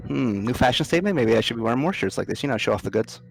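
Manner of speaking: quick, cheeky quip; flippant. Acted. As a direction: toss it off teasingly. Kendry quipping flippantly.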